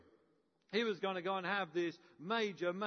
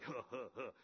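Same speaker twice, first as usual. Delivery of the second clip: belly chuckle; 7 semitones lower, 9 dB quieter than usual. Retold or imitated. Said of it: "Elijah starting to chuckle in his belly".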